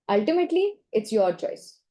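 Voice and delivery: wash your hands of the patient; dismissive tone. Shown as a demonstration. To the patient, dismissive and blaming. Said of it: "That's not emphasizing autonomy".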